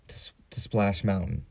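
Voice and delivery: breathy aside, like letting them in on a secret; whispered punchline; joking whisper. Real, not acted. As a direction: drop to a whisper for the joke. Joking aside about the huge line.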